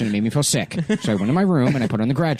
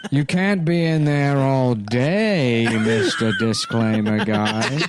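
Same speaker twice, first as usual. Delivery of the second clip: slow mock teacher; much slower than usual. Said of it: "telling me to get out".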